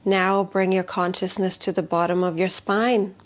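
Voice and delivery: calm, measured voice with long pauses; guided meditation. Shown as a demonstration. Healer leading a tapping affirmation for fear, guided meditation. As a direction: lead them gently, phrase by phrase, softening at phrase ends.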